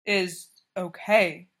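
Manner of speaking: put-on slow careful Russian-accented reassurance; cautious, Russian accent. A narrator's reading. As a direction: ease him down gently in a Russian accent. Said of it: "he said cautiously".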